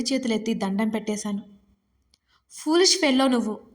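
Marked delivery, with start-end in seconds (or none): 2.5-3.6 annoyed. A narrator's reading. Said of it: "అన్నాడు విసుగ్గా".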